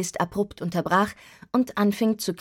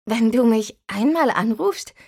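incredulous question; 3 semitones higher than usual. Acted. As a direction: question her logic with mild disbelief. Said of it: "fragte ich ungläubig".

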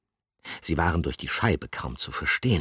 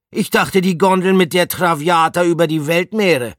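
astonished exclamation; 13 semitones higher, 10 dB louder than usual. A narrator's reading. Astonished hamster continues.

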